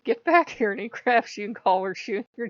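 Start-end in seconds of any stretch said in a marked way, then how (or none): 0.0-0.7 loud, higher barked command; commanding Odin. Retold or imitated. Odin ordering her back, commanding. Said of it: "Odin's like".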